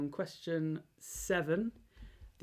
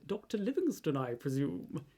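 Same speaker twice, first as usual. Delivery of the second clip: lightly put-on Victorian English accent; a touch of Victorian gent, Victorian accent; mild mock Victorian accent. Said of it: "That's my Victorian accent".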